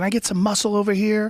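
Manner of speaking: high, fast mocking imitation; mock woman voice. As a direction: parody her shrill demand. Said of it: "Like that woman from the University of Missouri".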